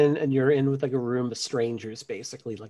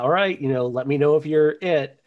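corny game host; 4 semitones higher, 6 dB louder than usual. Retold or imitated. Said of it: "I would do the corny".

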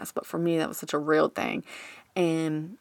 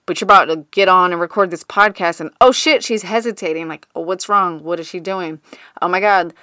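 mock panic; 7 dB louder than usual. Brain panicking before podcast.

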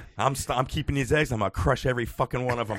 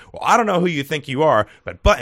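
retold indignant scolding, a bit louder; berating; 2 semitones higher, 7 dB louder than usual. Woman to the shopper next in line, berating. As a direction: imitate a woman telling someone off. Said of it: "she starts berating this woman".

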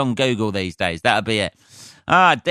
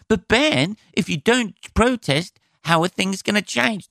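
mock objector; 8 semitones higher than usual. Mock listener challenging him.

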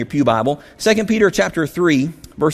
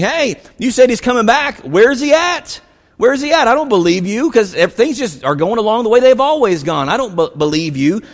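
higher, louder scoffing voice; mocking taunt; 5 semitones higher, 3 dB louder than usual. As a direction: sneer the question like a skeptic. Preacher voices taunting mockers.

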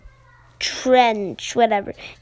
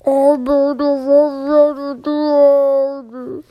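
dad voice; 2 semitones higher, 5 dB louder, slower than usual. Acted. Froggy's dad voiced in story.

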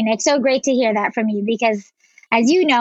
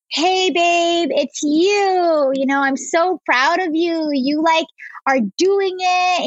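higher-pitched cheering on of herself; proud encouragement; 5 semitones higher, slower than usual. Retold or imitated. Woman retells her note to her past self, proud encouragement. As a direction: gush proudly, drawing out the words.

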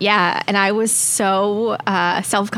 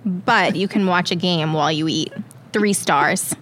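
put-on older Long Island man's accent; Long Island dad accent. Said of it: "pretend you're your dad".

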